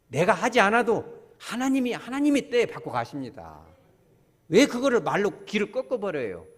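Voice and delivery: loud, high, forceful preaching. Real, not acted. Preacher exhorting congregation, loud and high. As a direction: drive it home with full force.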